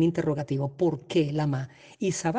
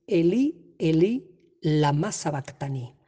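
quoting Jesus on the cross; slower than usual. Retold or imitated. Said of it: "pronuncia la famosa frase".

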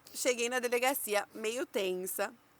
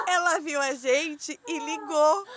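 laughing; 4 semitones higher, 5 dB louder, slower than usual. Real, not acted. Laughing while telling.

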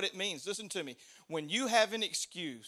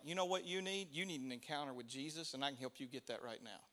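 lower, softer confiding offer; quiet reassurance; 3 semitones lower, 9 dB quieter, faster than usual. Retold or imitated. Disciples speaking to the lame man, quiet reassurance. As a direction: offer help quietly and low, as an imitation.

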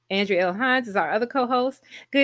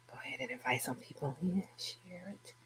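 whispering; 5 semitones lower, 17 dB quieter than usual. Real, not acted. Muttering while setting up stream.

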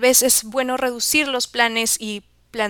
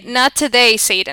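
emphatic catchphrase; 7 dB louder than usual. Pretend. Playful English catchphrase.

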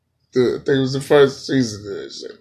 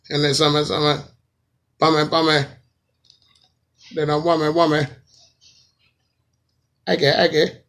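higher-pitched mock dancehall gibberish, words in pairs; 5 semitones higher, faster than usual. Comic parodying a repetitive singer, mock dancehall chant. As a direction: chant doubled nonsense like a parodied dancehall hook. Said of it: "saying the same thing twice".

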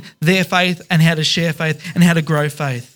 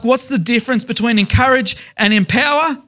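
imagined questioner; 6 semitones higher than usual. Retold or imitated. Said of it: "you might ask".

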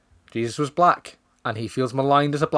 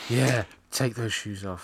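slow, softer mock come-on; mock sleazy director; 2 semitones lower, 5 dB quieter, slower than usual. Mocking Tarantino directing an actress, slow and sleazy. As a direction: purr it like a creepy director.

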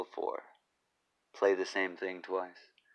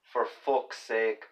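Irish accent; slower than usual. Shown as a demonstration. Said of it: "saying it pretty Irish".

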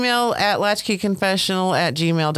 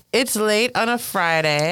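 sign-off voice; 5 semitones higher than usual. Acted. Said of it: "So we're gonna wrap it up".

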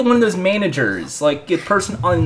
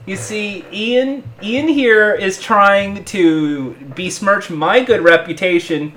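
wrestling promo. Pretend. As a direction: threaten both rivals on the mic. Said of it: "that's a face promo".

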